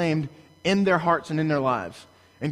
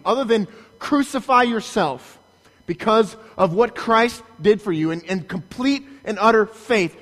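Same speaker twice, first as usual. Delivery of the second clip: higher, louder fiery scolding; preaching rebuke; 4 semitones higher, 3 dB louder than usual. Acted. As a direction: thunder at the congregation like Paul. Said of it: "Paul would scream through, with his pen".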